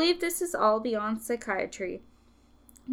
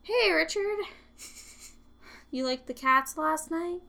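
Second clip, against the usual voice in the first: possessed; 7 semitones higher than usual. Retold or imitated. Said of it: "she was like".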